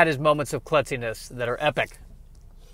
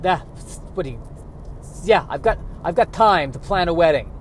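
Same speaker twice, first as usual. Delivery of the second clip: put-on Yiddish-accented squirrel. Squirrel character on dating.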